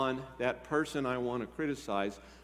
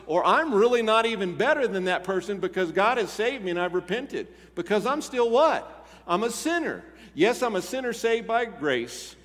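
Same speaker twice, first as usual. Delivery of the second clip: higher, louder preaching climax; rising preaching; 6 semitones higher, 6 dB louder than usual. Real, not acted. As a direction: build to the confession of being a sinner.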